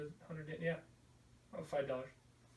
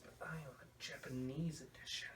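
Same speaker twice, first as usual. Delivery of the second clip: "but I own the Japanese edition" in a breathy whisper; hushed smug aside; whispered brag; 4 dB quieter than usual. Real, not acted.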